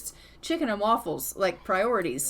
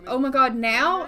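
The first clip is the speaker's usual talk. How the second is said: startled husband; 2 semitones higher, 7 dB louder than usual. Acted. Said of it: "And he's like".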